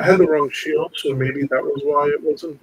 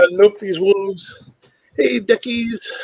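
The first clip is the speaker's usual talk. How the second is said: higher, drawn-out mock reaction; playfully raised retelling voice; acted-out reaction; 6 semitones higher, 5 dB louder, slower than usual. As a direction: act out dodging wolves for ducks. Acts out own reaction in game.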